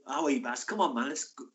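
put-on South Wales accent slipping into northeastern English; botched South Wales accent. Teammate urging his pal out, accidentally northeastern accent. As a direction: try Welsh but land in the North East. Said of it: "that's a northeastern accent".

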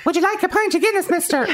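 put-on high, sing-song little girl asking; creepy child voice. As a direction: play the eerie village child offering a pint. Voicing the creepy child Roisin.

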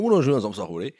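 "Wunderschöner Samstag" mit breitem Hamburger Akzent, "Samstag" lang gezogen. Shown as a demonstration. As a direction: spiel den Hamburger Akzent, wie "Wunderschöner" norddeutsch rollt. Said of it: "ganz komischen Hamburger Akzent". (Hamburger Akzent, leicht übertrieben)

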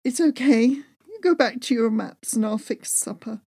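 a touch of tearful brushing-off; lightly voiced tearful wife; mild whimper. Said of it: "I whimpered".

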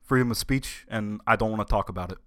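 lightly played senator, emphatic correction; halting, insistent politician voice, lightly done; Bernie. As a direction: object firmly in a light politician impression.

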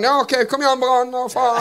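high, mocking fan voice; impatient fans. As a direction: wave the moment off and get on with the match. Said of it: "folk bare sånn".

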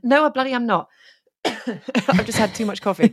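clearing throat between words; talking through a cough; coughing fit. Real, not acted. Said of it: "coughing away here".

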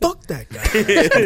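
slow, laughing dismissal; laughing mock scorn. Friends mocking the guild's refusal, laughing. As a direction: sneer it through a laugh. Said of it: "They're like".

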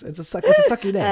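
high fast laughing complaint. Real, not acted. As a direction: giggle through it. Laughing complaint about name.

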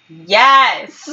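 loud mock exasperation; exasperated yes. The speaker answering Zach's clueless question, exasperated. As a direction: shout it as the obvious answer.

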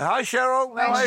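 calling out. Real, not acted. Host greets his wife over the air, calling out. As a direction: send a greeting out to someone absent.

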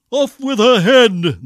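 furious storybook roar. A narrator's reading. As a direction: roar it out as an order. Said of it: "the prince roared back".

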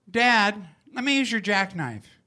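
a small boy pleading with his dad, only lightly played; child asking dad. Child voice in retold story.

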